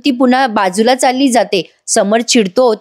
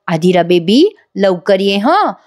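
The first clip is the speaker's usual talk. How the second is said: sweet with a smile; 2 semitones lower, slower than usual. Retold or imitated. Mother wiping her daughter's tears, smiling sweetly. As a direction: coax her sweetly, a touch syrupy. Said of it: "छोटीशी smile करत म्हणते".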